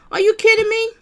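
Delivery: pitched well up, incredulous; shocked outburst at the screen; stunned disbelief. Real, not acted. Disbelief at the flirting, again.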